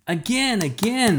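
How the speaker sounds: high, excited begging; eager child. A narrator's reading. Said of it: "the boy clapped".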